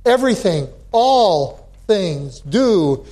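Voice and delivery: slow, weighty emphasis on "all"; stress on ALL. Shown as a demonstration. Pastor restating the verse after the Greek, stress on "all". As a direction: stretch out "all" to carry the weight. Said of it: "puts emphasis on the word".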